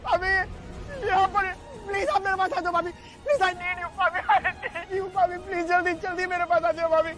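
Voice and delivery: frantic, tearful pleading; panicked pleading. Acted. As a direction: beg for help in panic. Panicked call after accident.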